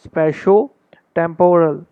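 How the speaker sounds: whispered spatio-temporal split into two slow halves; broken into halves. Shown as a demonstration. Teacher whispers the word in halves to show practice. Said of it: "आधा आधा पढ़ना है".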